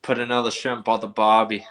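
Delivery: put-on a weak, barely-there Aussie accent on the barbie line; amateur Aussie accent attempt. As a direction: try an Australian accent, not quite landing. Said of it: "give me your best Aussie accent".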